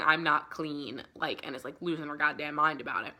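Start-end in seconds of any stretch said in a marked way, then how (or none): 0.0-1.0 slow, drawn-out I'm not clean; a hint of panic, dragged out slowly; mock freaking out. Mina freaking out about being tainted, slow and anguished. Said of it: "she's freaking out going".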